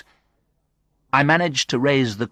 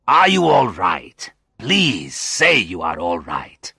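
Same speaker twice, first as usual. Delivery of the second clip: worried friend; 4 dB louder, slower than usual. A narrator's reading. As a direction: plead with concern, stretching the words. Oswaldo anxious about injured friend.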